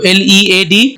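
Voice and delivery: slow letter-by-letter spelling; teacher spelling out a word for the class; spelled out. Shown as a demonstration. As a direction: spell each letter slowly and clearly. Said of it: "लीड, जो metal का काम करती है".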